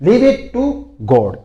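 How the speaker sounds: slow demo again; slow model phrase. Shown as a demonstration. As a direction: repeat it slowly for the class. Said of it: "इसको कैसे बोलते देखो".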